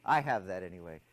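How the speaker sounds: ordinary talk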